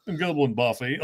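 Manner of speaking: put-on a light sneer of a pretty-boy snob; cocky rich guy. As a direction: toss it off like a smug rich kid. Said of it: "I always think of the, the cocky rich guy".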